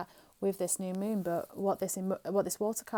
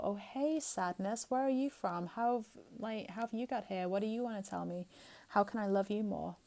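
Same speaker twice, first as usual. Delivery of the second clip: gentle, kind address to sadness. Pretend. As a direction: greet the sadness tenderly, with curiosity. Greeting her own sadness kindly.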